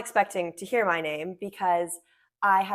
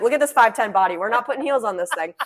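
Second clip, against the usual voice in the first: laughing protest; 4 semitones higher, 8 dB louder than usual. Retold or imitated. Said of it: "I'm like".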